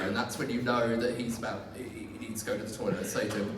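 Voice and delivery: normal talking voice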